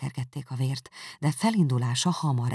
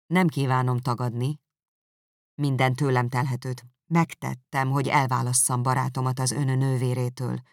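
lightly voiced calm man; cool composure; 4 dB louder than usual. Darcy coolly admitting it to Elizabeth, a hint of calm. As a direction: answer with seeming cold blood. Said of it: "látszólagos hideg vérrel felelte".

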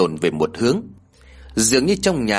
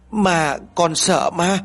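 put-on a small boy stammering in fear, higher and slow; frightened stammer; 7 semitones higher, slower than usual. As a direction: get the words out haltingly, scared. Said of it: "con trai lắp bắp vài từ ấy".

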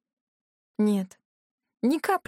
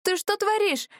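startled outcry; 12 semitones higher than usual. Acted. Bitten by demon cat.

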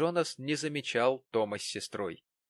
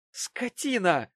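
higher, loud insulting yell; outraged cry; 9 semitones higher, 6 dB louder, slower than usual. A narrator's reading. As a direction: hurl the word at him. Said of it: "вскричала".

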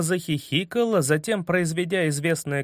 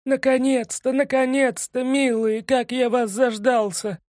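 high excited penguin cry; shouting; 8 semitones higher, 4 dB louder than usual. A narrator's reading. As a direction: call out eagerly, high and loud. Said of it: "крича на ходу".

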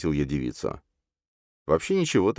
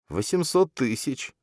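slow, timid babble, barely getting it out; babbling; 8 semitones higher, slower than usual. A narrator's reading. Captive Murphy admitting the sum, a slow frightened babble. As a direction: let it slip out slowly and scared. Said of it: "пролепетал он".

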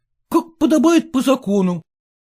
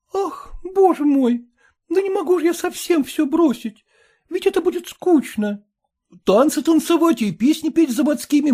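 put-on girl's voice, higher, lightly reproachful; Dunka's voice; 7 semitones higher than usual. Dunka chiding jealous Gleb Kirillovich, higher girlish voice. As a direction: chide him for being jealous. Dunka defends her fun.

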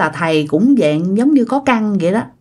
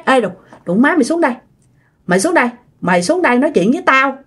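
put-on fast, higher, drunken challenge at the ceiling; mock drunk cursing; 4 semitones higher, much faster than usual. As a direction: bark it up at the ceiling like a drunk picking a fight. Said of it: "nó nhìn lên trên cái trần nhà, nói". (giọng chửi say xỉn nhại lại, nhanh và cao)

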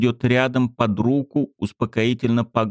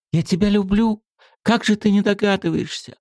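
put-on high girl's confession; 12 semitones higher than usual. A narrator's reading.

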